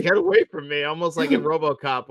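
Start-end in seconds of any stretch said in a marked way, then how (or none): 0.0-0.8 lightly acted, higher-pitched plea; mock alarm, only partly performed; quick imitation of fending someone off; imitated sheriff. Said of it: "he's like".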